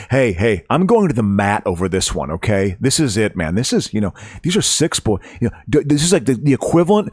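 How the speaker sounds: hammed-up outraged free-speech guy; mock indignant crusader.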